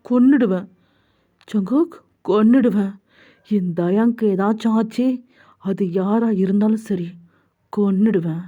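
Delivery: controlled, menacing vow, falling at the ends; grim threat. Acted. Jungkook vowing to avenge his beloved, grimly determined. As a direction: swear it with restrained anger. Jungkook vows to kill for love.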